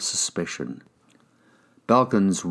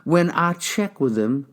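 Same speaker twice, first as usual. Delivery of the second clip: higher, probing detective; 9 semitones higher than usual. Acted. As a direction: question him like a cop. Detective voice again.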